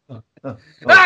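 short mock gasps of alarm; startled gasps. Shown as a demonstration. Passenger's heart skips at every swerve, mock startled gasps. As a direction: imitate a jumpy passenger catching their breath. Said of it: "your heart skips a beat".

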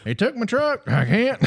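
high, loud falsetto Mississippi wife; a Mississippi wife complains the aliens took the truck. Retold or imitated. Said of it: "this is Sally's response".

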